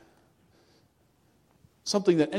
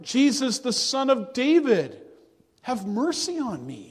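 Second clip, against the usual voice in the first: crying out; 2 semitones higher than usual. Retold or imitated. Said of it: "And he cried out".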